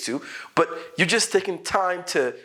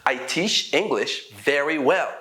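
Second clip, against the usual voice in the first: slow example sentence; slower than usual. Shown as a demonstration. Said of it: "How do I teach it?".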